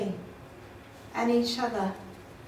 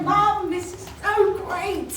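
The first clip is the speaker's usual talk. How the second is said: put-on excited child; 8 semitones higher, 3 dB louder, slower than usual. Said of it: "he ran in the room".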